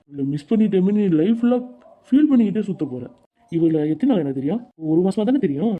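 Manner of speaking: loud, heated quarrel between friends; heated argument. Acted. Friends arguing loudly over Sidhu sending Kayu away, heated shouting. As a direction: shout him down, fed up and hurt.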